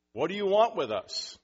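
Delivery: high, loud demand; crying out. A narrator's reading. Preacher reading the evil spirit's words to Jesus, crying out. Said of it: "the evil spirit cries out".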